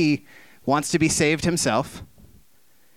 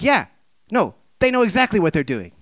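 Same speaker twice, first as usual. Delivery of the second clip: mock scoff; 6 semitones higher, 5 dB louder than usual. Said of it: "we're like".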